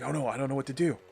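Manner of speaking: lightly acted flustered inner voice; a touch of hammed-up dithering; mild mock panic. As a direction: play at being at a loss, slightly quickened. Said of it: "they'll switch to in his head, and he'll be like".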